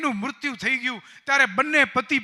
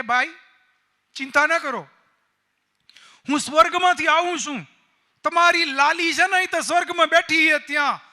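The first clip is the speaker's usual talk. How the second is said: higher, louder, coaxing holy-man voice, soothing her to win trust; smooth-talking fake sadhu; 4 semitones higher, 5 dB louder than usual. Fake sadhu coaxing the grieving mother, higher and sweet. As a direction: play the swindler's sweet reassurance.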